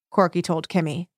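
ordinary delivery, nothing marked

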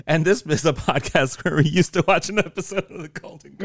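squawky cartoon duck talk, laughing; Donald Duck voice. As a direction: quack the words out like a duck. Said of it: "I said".

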